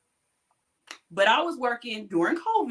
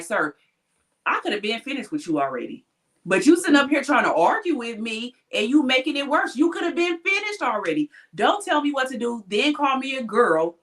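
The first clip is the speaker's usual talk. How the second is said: firm, rising mock scolding, higher toward the end; replaying a heated comeback; retold angry scolding; 4 semitones higher than usual. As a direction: tell off a rude patient again in the retelling. Retold argument with rude patient.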